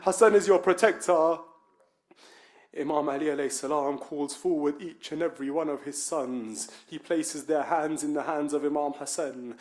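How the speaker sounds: hushed sermon narration. A narrator's reading. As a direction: draw the room in with a low, soft voice.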